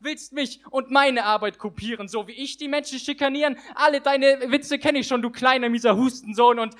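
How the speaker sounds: rhythmic rhyming performance; slam poem recitation. Acted. Poet performing his slam text to the audience, rhythmic. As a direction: drive the rhymes home for the crowd.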